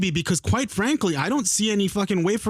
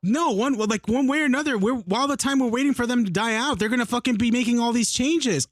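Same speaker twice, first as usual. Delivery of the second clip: worked-up, higher-pitched argument; really heated; 4 semitones higher than usual. Real, not acted. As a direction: push the point insistently, pitch raised. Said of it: "I'm getting really heated about this".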